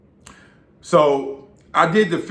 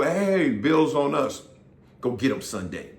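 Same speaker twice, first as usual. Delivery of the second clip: mock fan offer; 3 dB quieter, slower than usual. Fans offering to pay for drinks.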